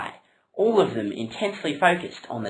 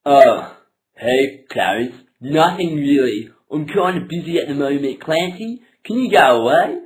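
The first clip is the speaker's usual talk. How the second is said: annoyed; 7 dB louder than usual. Acted. Annoyed Peter dismisses Clancy.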